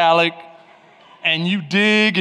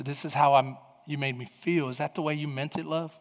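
soft, lowered, careful asking; gentle concern; 6 semitones lower, 10 dB quieter than usual. Shown as a demonstration. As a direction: model a tender question to a spouse, hushed and low. Models gently voicing a concern.

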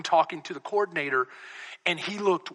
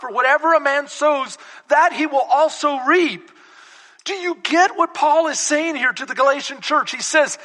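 raised preacher's voice; preaching; 9 semitones higher, 6 dB louder than usual. Real, not acted. Preacher asks if they get what Paul says, preaching. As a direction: press the verse on the congregation. Preaches at full force to congregation.

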